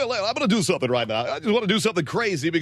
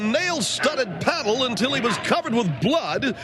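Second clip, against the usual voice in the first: carnival announcer; 3 semitones higher than usual. Acted. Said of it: "like you're announcing".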